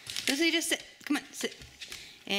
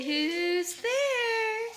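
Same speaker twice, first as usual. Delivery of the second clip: modelled question; 7 semitones higher, much slower than usual. Shown as a demonstration.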